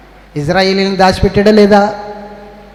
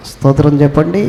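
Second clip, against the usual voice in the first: ordinary delivery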